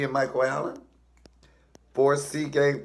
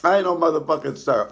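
loud, high offended retort; mock outrage, loud and pitched up; acted indignant mother; 6 semitones higher, 7 dB louder than usual. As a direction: snap back as an insulted mama. Acts mama's offended retort again.

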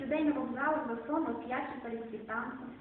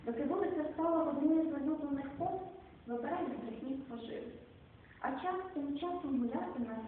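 poetry reading. Acted. Reads own poem aloud.

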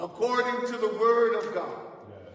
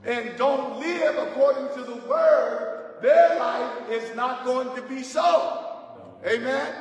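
preaching at full force. Acted. Preacher urging the congregation to live by the word, fervent. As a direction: drive it home to the congregation.

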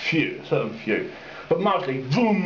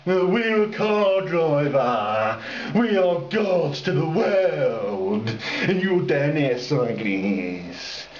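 mock smug driver; 2 semitones lower, much slower than usual. Mocking arrogant drivers.

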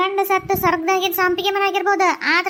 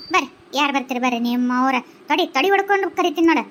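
low taunting challenge; 6 semitones lower than usual. Acted. Old woman challenges them to fight.

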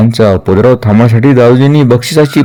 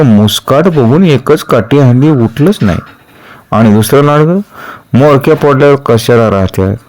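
lightly voiced villager recounting a fight; rustic villager Bhima, animated; 2 semitones higher than usual. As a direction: recount the wolf fight blow by blow, with some excitement. (गावरान भीमा, रंगात येऊन सांगताना)

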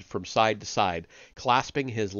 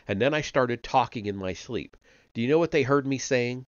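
a lightly raised, pleading voice for the frightened Parsons; a hint of a nervous, eager-to-please chap; anxious Parsons; 3 semitones higher than usual. Parsons begs Winston for reassurance in the cell, lightly voiced and anxious.

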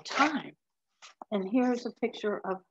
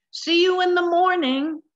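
higher, louder call across the room; cheerful goodbye call; 9 semitones higher, 6 dB louder than usual. Acted. Rosa calling goodbye to coworkers, bright and loud. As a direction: sing out a goodbye.

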